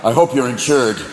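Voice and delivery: low, threatening buck; low-pitched deer out for revenge; menacing buck. Acted. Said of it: "five-point buck that jump out in front of your car like".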